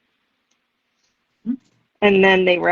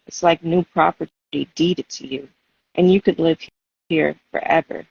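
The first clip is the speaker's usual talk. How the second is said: poem reading. Acted. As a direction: let each image land with pauses between phrases. Reads her poem aloud.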